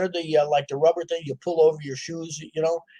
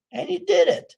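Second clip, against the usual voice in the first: much higher, louder, triumphant burst on "did"; triumphant exclaim; 4 dB louder than usual. Real, not acted. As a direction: proclaim it like a victory. Triumphant climax of the story.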